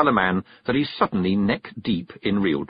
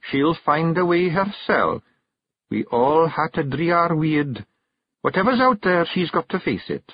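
higher Scottish firm wife; stern Kelda; 8 semitones higher than usual. Acted. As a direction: lay down the law. Jeanie's verdict.

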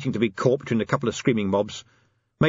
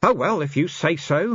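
raised, mildly resigned voice; hopeless resignation; 7 semitones higher than usual. A narrator's reading. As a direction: give in with a touch of hopelessness. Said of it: "he said hopelessly".

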